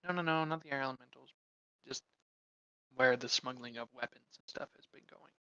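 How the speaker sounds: low quality mic; muffled, tinny mic sound; low sample rate. Real, not acted. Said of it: "your mic is really low quality for some reason".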